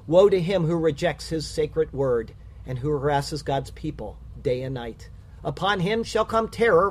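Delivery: measured, rhyming poem reading; solemn rhymed verse, read with weight; poem recital. Acted. Reads a rhyming poem aloud.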